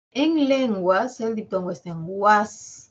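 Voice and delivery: "guas" drawn out and stressed; slow, pointed "guas"; stressing guas. Shown as a demonstration. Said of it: "Solo estoy señalando las vocales".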